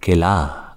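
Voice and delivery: "kela" with an h breathed out at the end. Shown as a demonstration. Teacher models the aspirated word for students. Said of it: "I'm kinda breathing it out".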